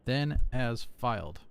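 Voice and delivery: deliberate slow count of Then as filed; slow, counting syllables. Shown as a demonstration. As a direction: spell out Then as filed beat by beat. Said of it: "It's four syllables".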